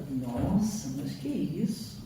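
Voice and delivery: low, soft taken-aback gasp of words; shocked surprise. Retold or imitated. Speaker startled at her own outburst, low and soft. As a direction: react as if caught off guard, hushed.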